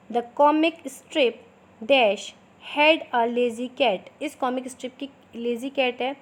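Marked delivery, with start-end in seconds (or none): 0.1-4.1 slow, clear dictation pace for students to write. Shown as a demonstration. Teacher dictating slowly to her students. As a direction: spell it out slowly so they can copy. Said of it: "थोड़ा मैं slow slow बोलूँगी".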